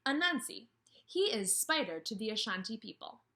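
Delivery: storybook read-aloud voice; reading to children. Acted. Teacher reads Ferdinand to her class, storybook manner. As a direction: read it like story time on the rug.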